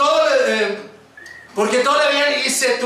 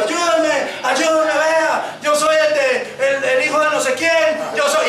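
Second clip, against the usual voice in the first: slightly raised, insistent pleading; mock panicked plea; imitated frightened shouting; 3 semitones higher, slower than usual. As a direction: imitate a man running and begging for help. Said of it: "Así gritando un hombre".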